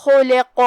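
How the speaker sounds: خلق ending with a bounced echoing qaaf; qalqala on qaaf. Shown as a demonstration. Teacher demonstrating qalqala, bouncing final qaaf. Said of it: "قاف کو ہلاتے ہوئے".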